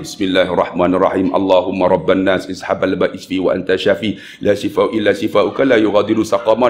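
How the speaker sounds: low, even-pitched Arabic prayer; doa recitation. Acted. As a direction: recite the healing prayer in a low murmured run. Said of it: "Dah baca doa apa semua". (bacaan doa bernada rendah)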